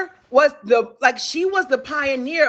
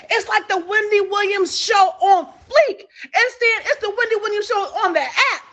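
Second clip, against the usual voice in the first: excited hype; 5 semitones higher than usual. Real, not acted. Hyping her own show.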